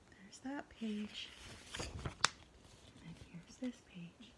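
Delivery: soft unvoiced whisper aside. Real, not acted.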